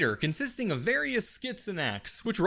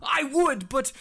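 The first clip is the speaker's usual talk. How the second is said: scientist Doc; 3 semitones higher than usual. Acted. Doc voiced.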